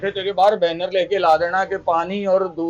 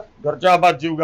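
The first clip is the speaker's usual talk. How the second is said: mocking echo; 5 semitones lower, slower than usual.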